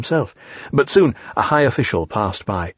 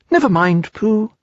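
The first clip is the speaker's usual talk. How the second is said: higher, gentle little comfort; comforting Piglet; 10 semitones higher than usual. A narrator's reading. Piglet comforts Pooh, higher and gentle. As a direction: soothe a sad friend. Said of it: "said Piglet comfortingly".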